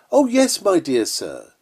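a hint of a smarmy flatterer; mock flatterer. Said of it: "It is".

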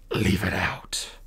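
slow, strained whisper; choked whisper. A narrator's reading. Captive dragon choking out a plea, whispered. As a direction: force it out through the pain. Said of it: "choked out".

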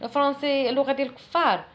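mock a man who refuses French; mocking a stubborn speaker. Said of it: "ولكن صافي كيقول لك". (تقليد خفيف لشخص عنيد)

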